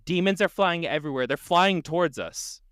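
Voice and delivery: high, urgent mock scream. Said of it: "the man started screaming".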